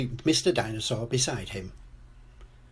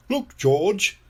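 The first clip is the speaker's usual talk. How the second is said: higher, louder call for attention; Daddy Pig; 8 semitones higher, 5 dB louder than usual. A narrator's reading. Daddy Pig points into the shop window, calling out. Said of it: "says Daddy Pig".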